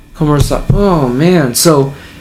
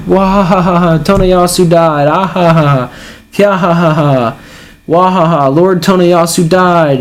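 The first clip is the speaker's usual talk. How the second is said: higher-pitched mock wailing mixed with ha-ha laughter; crying but laughing; 4 semitones higher, slower than usual. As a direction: imitate a crowd chanting its grief through forced laughs. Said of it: "crying but laughing, all cheering".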